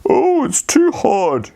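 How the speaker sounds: put-on high, slow little-girl voice; Goldilocks. Goldilocks voice in story.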